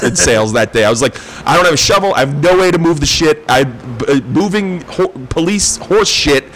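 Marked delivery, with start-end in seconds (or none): 1.5-6.4 indignant complaint. Retold or imitated. Quoting self complaining.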